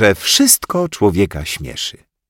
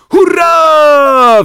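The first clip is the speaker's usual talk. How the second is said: very high, loud cheer; yelled hurray; 10 dB louder than usual. Acted. Grześ yells a joyful cheer from the floor. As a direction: scream it with joy. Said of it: "wrzasnął z podłogi Grześ".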